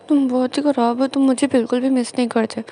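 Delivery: loud, sulky scolding of the husband; whiny angry complaint. Retold or imitated. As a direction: pour out hurt anger, loudly. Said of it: "जानर बोलता है". (नाराज़ होकर ज़ोर से शिकायत)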